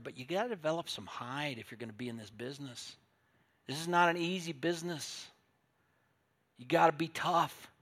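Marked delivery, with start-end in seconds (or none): 3.7-7.7 louder, higher closing push; forceful exhortation. Real, not acted. Preacher loudly urging the flock to develop some hide. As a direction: drive the point home.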